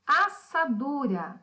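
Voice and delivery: assadura said slowly, DU drawn out; syllable stress demo. Shown as a demonstration. Teacher asking pupils for the strongest syllable, slow stress demo. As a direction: stretch assadura out so each syllable is heard. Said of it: "Qual é a sílaba mais forte?".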